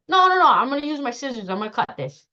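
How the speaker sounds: quick, high, loud mock objection; acted protest. Participant refusing the exercise, mock protest.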